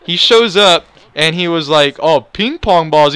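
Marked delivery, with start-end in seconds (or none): 2.0-3.1 drawn-out, mock-delighted sarcasm; sarcastic and happy. Store worker remarks on the ping pong balls, sarcastic and happy. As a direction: stretch it out with fake cheer. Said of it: "being sarcastic and happy".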